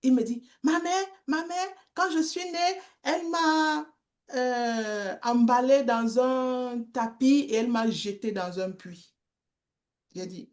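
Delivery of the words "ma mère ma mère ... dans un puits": voix d'enfant imitée. Retold or imitated. Enfant de la rue raconte.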